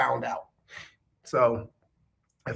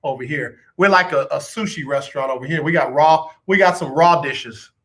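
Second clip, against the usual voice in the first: soothing apology; 2 semitones lower than usual. Retold or imitated. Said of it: "apologize to them, like".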